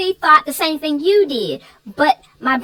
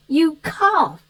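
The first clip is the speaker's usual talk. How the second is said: retold cough. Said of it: "He said, "Think about it".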